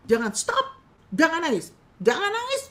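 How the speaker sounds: high, laughing hammed-up stop; mock a flustered helper shushing tears; impatient counselor. Bad counselor telling a crying client to stop, mock impatient.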